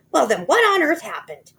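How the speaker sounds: a high alarmed wife; high loud alarmed cry; crying out as Missus Twit. A narrator's reading. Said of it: "cried Missus Twit".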